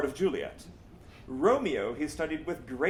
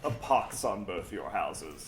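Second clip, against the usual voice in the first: laughing punchline; 8 semitones lower, slower than usual. Acted. Mercutio's line quoted as punchline.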